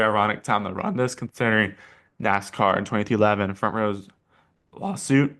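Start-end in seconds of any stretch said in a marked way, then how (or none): 4.7-5.3 a sudden crack in the voice. Real, not acted. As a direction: voice cracking up high on the word. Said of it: "voice crack".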